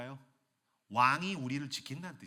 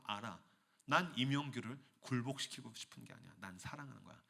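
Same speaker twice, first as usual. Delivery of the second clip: tender divine voice; 4 semitones lower, 8 dB quieter than usual. Acted. God speaking lovingly to him.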